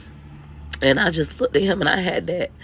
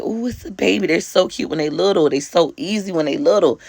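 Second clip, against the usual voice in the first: mock gushing over a baby; 2 semitones higher than usual. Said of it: "some people become fascinated with".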